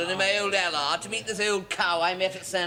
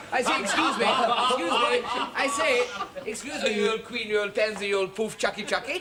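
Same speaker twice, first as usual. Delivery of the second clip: higher put-on upper-class call; posh voice; 5 semitones higher than usual. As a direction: call out like a toff. Calling barman in put-on posh voice.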